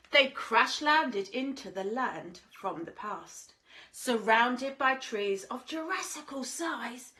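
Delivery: lilting rhymed storybook read; sing-song storyteller voice; reading to children. A narrator's reading. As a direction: read it like a bedtime picture book. Rhyming story read aloud.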